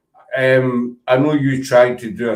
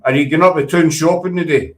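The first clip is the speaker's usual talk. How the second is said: Scottish accent. Shown as a demonstration. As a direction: model a Scottish question. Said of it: "say it in a Scottish accent".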